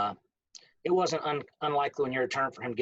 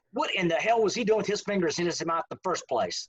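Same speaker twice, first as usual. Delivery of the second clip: higher, mock-indignant coach's comeback; acted outrage, pitched up; retold vein-popping outburst; 5 semitones higher than usual. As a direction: imitate a coach arguing back without missing a beat. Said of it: "see the veins come out the side of his head".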